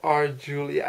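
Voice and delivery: slow, drawn-out mock-Shakespeare call; lightly theatrical balcony plea; mock Shakespearean. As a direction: stretch each word like a hammy Romeo. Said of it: "I wanted to say something Shakespearean".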